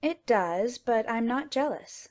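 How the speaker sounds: calm. A narrator's reading. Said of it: "said Stella calmly".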